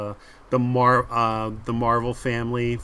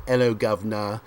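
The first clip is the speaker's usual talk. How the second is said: hammed-up British greeting; a quick mock-British accent sample; cartoonish British accent. Shown as a demonstration. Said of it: "attempt a cartoonish British accent".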